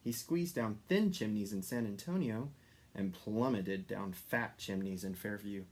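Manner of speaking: plain reading voice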